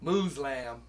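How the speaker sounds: Muslim said as MUZ-lam, mimicking a friend; mock a friend's MUZ-lam; lightly imitated friend saying Muslim; imitating ghetto white. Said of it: "I knew somebody that used to go".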